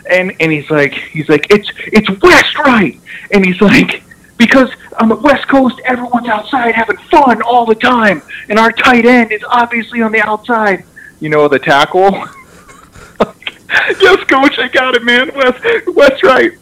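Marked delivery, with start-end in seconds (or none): 1.5-3.0 high, drawn-out exasperated correction; intense coach imitation. Coach correcting a player's wrong formation, mock-intense. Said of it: "he was just intense like that". 4.4-10.8 high, insistent mock lecture; intense coach imitation. Coach explaining a formation to a player, mock-intense. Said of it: "he was just intense like that". 14.0-16.5 very high, yielding reply; imitated flustered player. Player answering an intense coach, flustered and high.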